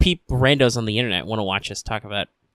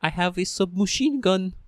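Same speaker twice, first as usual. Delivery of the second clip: higher, slow nerdy terrorist voice; 8 semitones higher, slower than usual. Retold or imitated. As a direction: play a smug nerd villain bragging. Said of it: "It's nerdy terrorist".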